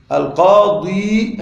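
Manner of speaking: القاضي very slowly, held on ḍī with nothing after; kasra under ḍād. Shown as a demonstration. Teacher locating the kasra for students, القاضي stretched on ḍī. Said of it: "هذه الكسرة تحت الضاد".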